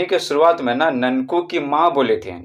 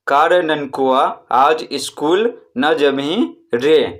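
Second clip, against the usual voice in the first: slow reading, the last रे held long; drawn-out final रे; much slower than usual. Shown as a demonstration. Teacher reads the mother's question from the chapter, drawn out. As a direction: read it slowly and stretch रे. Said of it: "उसका उच्चारण लंबे समय तक किया गया".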